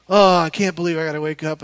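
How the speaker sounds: quick groaning gripe, loud on the first word; mock teenage complaint. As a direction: complain like a schoolkid dreading morning. Acts out his school-age self.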